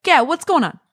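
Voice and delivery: punchy Long Island greeting; Long Island dad. Retold or imitated. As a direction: imitate a dad with a thick Long Island accent. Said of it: "has a very Long Island accent".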